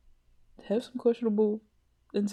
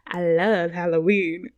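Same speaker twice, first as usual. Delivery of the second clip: slow, louder, deadpan declaration; declared flatly; 2 semitones lower, 7 dB louder, slower than usual. Pretend. Vlogger slowly declares her love of Halloween. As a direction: state it slowly like a confession. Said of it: "the way I said that sounded like".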